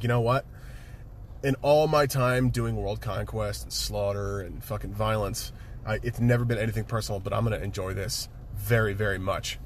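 a hint of a low-voiced villain; lightly voiced Thanos. Thanos tells Captain America he'll enjoy this, lightly voiced villain. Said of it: "Thanos is like".

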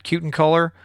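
Kutencooler with a KYOO first syllable; settled-on pronunciation. Shown as a demonstration. Host settling on a guest's surname, Kutencooler as KYOO-ten-cooler. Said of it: "something like that".

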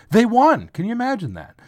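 high-pitched squeak of disbelief; voice octaves up. Real, not acted. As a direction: let the voice shoot way up, incredulous. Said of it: "my voice goes up a few octaves".

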